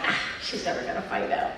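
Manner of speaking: szept przy opowiadaniu; retold whisper. Retelling thinking mom won't know.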